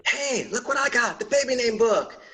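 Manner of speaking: a hint of a thrilled mom; excited mom. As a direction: mom showing dad the baby name book, mildly excited. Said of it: "your mom comes home and is like".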